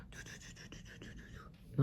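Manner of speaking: whispered rapid "tout, tout, tout" like people hurrying past; unvoiced muttering imitation of busy passers-by; mock hurried muttering; rushed mumble. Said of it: "Non, c'est plus vite que ça".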